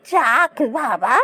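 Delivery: slow, choked-up joy; drawn out, close to tears with relief; old woman moved by the brothers' reunion, tearful. Acted. Old woman sees brothers reconciled.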